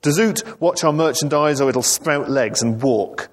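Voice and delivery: high-pitched mock shouting; shouted orders.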